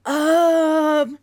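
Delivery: high-pitched, flustered stammering denial; flustered panic. Retold or imitated. Mom caught out by her son, flustered panic. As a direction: scramble to shut the question down. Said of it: "I'm like".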